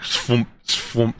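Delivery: short whooshing swoomp, twice; imitated swoomp noise. Game master shows carriages being sucked away, imitated swoomp. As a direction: make a swoomp sound effect.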